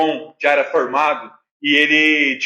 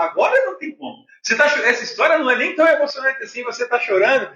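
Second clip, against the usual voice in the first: lightly voiced incredulous daughter, higher and quick; quick, higher mimicked disbelief; Natália; 6 semitones higher, faster than usual. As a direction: imitate a daughter needling her dad. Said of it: "Essa, ela falou".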